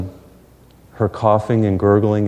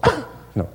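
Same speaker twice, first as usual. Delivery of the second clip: imitating mom's cough; 6 dB quieter than usual. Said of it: "She's always like".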